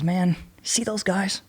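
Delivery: slow, soft whisper to his buddy; hushed whisper. Retold or imitated. Whispering in the surf.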